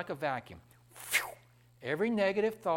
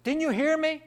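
high, loud indignant demand; shouting woman; 11 semitones higher, 7 dB louder than usual. Retold or imitated. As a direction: yell it at the smiling preacher. Angry woman yelling at preacher.

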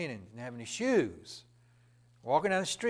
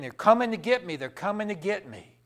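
retold yelling; 4 semitones higher, 8 dB louder than usual. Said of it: "he was screaming and yelling".

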